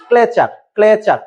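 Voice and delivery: ক্লেচার repeated slowly as kle-char, k and l together; correct pronunciation. Shown as a demonstration. Teacher drills ক্লেচার again, slow and careful. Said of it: "এটা উচ্চারণ কি হবে?".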